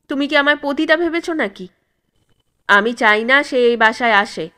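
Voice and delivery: offended wife rebukes her husband, firm anger; firm and angry. Acted. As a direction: hold your ground with hard, clipped anger. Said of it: "রাগে শক্ত গলায় বলে".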